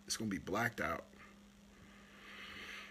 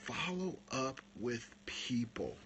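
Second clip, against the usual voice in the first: slow whispered secret; hushed tip on following up; 8 dB quieter, slower than usual. Shown as a demonstration. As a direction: let them lean in for the secret. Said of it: "Here's the magic".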